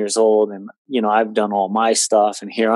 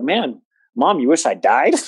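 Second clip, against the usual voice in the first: mock outrage, laughing; 4 semitones higher than usual.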